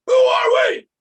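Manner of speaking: very high, loud shout; full-throated sideline chant; cheer call. Retold or imitated. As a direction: holler it harder to rally the team. Repeating the cheer louder.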